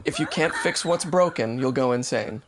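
slow, deliberate line reading, dropping at the end; slow model line. Shown as a demonstration. Feeding the sentence for an accent attempt, slow delivery. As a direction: give the sentence slowly and evenly. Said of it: "go with the sentence that".

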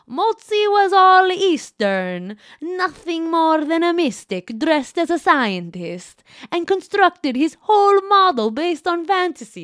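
put-on loud, high, slow Italian accent. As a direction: ham up a thick Italian accent. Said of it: "I should be doing Italian accent for, uh, Galileo".

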